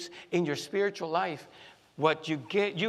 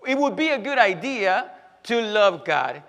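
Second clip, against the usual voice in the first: mock polite request; 3 semitones higher, 7 dB louder than usual. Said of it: "He didn't say".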